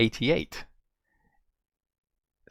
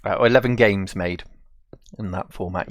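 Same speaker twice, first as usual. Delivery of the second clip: just woken up, croaky; croaky morning voice. Real, not acted. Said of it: "my voice does sound different 'cause I've just woken up".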